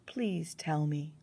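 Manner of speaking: slow, gentle plea; softened tone. Acted. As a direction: ease off and ask kindly. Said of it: "Her tone softened".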